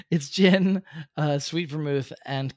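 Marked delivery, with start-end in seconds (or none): 0.0-0.8 laughing through the words. Real, not acted. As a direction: giggle as you say it. Laughing mid explanation.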